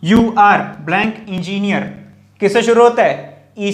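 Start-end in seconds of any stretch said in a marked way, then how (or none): 0.0-1.8 drawn out very slowly, pausing at the blank; very slow fill-in prompt. Shown as a demonstration. Teacher drawing out a blank for students to fill. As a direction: leave room for the class to fill in the blank. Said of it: "ट से शुरू होता है".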